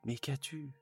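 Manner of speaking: alarmed husband asking his crying wife; stammering husband. Acted. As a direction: ask with alarm, stumbling. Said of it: "Il bégaya".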